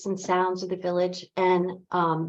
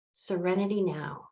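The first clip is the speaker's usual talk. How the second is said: calm mantra; 5 dB quieter than usual. Acted. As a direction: say it softly, as a settled motto. Calm life mantra first introduced.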